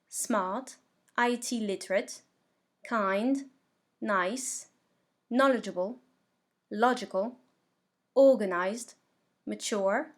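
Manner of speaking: word-list drill with each stressed syllable clear; pronunciation model. Shown as a demonstration. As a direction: say each adjective separately for learners to practise, pausing after each. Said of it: "je vais vous prononcer la liste".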